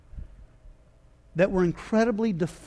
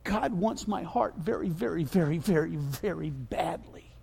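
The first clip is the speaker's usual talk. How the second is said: soft, intimate preaching, fading to a whisper; hushed, repeated words fading into breath; hushed emphasis; 3 semitones lower, 7 dB quieter than usual. Real, not acted. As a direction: drop low and quiet, sinking into a whisper. Hushed close after shouted climax.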